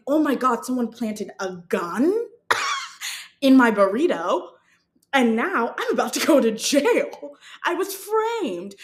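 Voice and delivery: dramatic, wailing imagined alarm; mock panic. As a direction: play up the horror, half laughing. Imagined panic about being framed.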